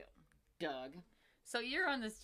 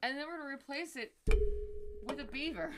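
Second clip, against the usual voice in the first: reality show narration; 4 semitones higher than usual. Shown as a demonstration. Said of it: "they have a cadence in their speaking".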